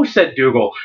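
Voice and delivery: storyteller reading a fantasy novel aloud; dramatic story narration with lightly voiced characters. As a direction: read it like an audiobook, drawing out the suspense. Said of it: "do a little bit of a dramatic reading from it".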